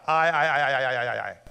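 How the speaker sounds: rapid run of ayes, voting as a whole group; mock vote of ayes. Brothers voting on killing Joseph, mock chorus of ayes. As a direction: rattle off ayes like many voters. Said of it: "All in favor say aye".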